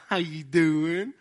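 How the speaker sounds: slow, drawn-out friendly hello; smiling fake-sweet greeting. Secretly mad Southerner passing you by, falsely friendly. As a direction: stretch it out through a smile, hiding the grudge. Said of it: "They'll just smile at you".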